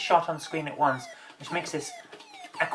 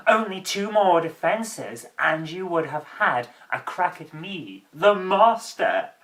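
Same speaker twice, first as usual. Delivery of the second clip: hammy actor voice. Pretend. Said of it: "This guy is so hammy".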